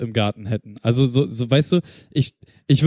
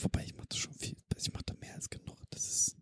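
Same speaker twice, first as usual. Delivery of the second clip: real whisper, muttered under the breath; a real whispered complaint; whispered aside; 21 dB quieter than usual. Real, not acted. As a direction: drop to a whisper so the partner won't hear. Aside about garden work.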